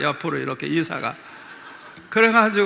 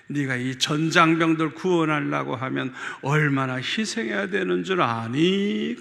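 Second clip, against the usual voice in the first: voice of the Lord; 3 dB louder than usual. Retold or imitated. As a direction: speak as God gently rebuking. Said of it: "주님이 말씀하시더라고요".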